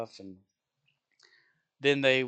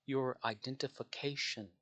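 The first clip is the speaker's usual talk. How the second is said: slow spelled-out insistence; 7 dB quieter than usual. Retold or imitated. Cashier repeating slowly.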